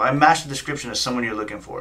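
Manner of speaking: incredulous repeat of his words; smart-ass echo. Retold or imitated. Driver echoing the officer's excuse, smart-ass. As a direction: throw it back at him, mock disbelief. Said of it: "I was being a smart ass".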